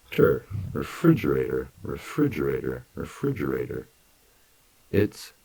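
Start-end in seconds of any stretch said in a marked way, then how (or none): 0.7-3.9 "refrigerator" with a dj sound, each repeat fading; natural long form. Shown as a demonstration. Teacher repeating "refrigerator" for students to copy. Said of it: "changes the G sound to a D J".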